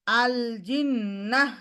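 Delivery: জিন্নাহ with a wavering nasal; shaky ghunnah. Shown as a demonstration. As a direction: make the ghunnah in জিন্নাহ tremble. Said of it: "এরকম shaking করা". (কাঁপানো গুন্নাহ)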